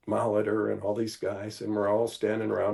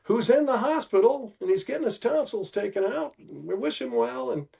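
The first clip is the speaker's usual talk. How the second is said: high, bright broadcaster shout-out, much higher pitch; imitating Uecker on radio; 11 semitones higher than usual. Uecker greeting his sick bat boy on air, high mock broadcaster voice. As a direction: play the radio announcer giving a hospital shout-out, pitched way up. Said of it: "Bob Uecker goes".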